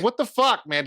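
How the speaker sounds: high-pitched retold exasperated outburst; mock exasperation. Viewer retelling frustration at whispering actors, mock exasperation.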